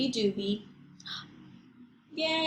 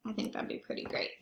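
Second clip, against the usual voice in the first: whisper; 10 dB quieter, faster than usual. Real, not acted. Soft aside after question.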